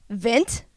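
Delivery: "Vent" with V and flat eh; want as vent. Shown as a demonstration. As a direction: say "Vent" for want, V onset, eh vowel. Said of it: "if you were saying want".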